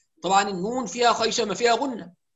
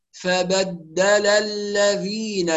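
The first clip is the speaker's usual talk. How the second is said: slow "فبدل الذين", each short vowel completed; full vowels; much slower than usual. Shown as a demonstration. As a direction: recite "فبدل الذين" in measured syllables. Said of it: "يبقى نتم الحركات". ("فبدل الذين" بإتمام الحركات وتمهّل)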